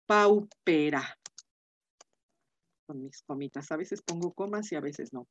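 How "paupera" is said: paupera said slowly, syllable by syllable: pau-pe-ra; slow Latin pronunciation. Shown as a demonstration. Teacher slowly dictating a Latin adjective form, paupera. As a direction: spell out paupera slowly for the class. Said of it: "aquí pauper".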